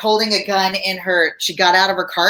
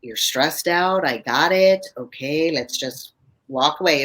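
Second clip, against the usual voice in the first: low and slow; slower than usual. Shown as a demonstration. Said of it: "They call it low and slow".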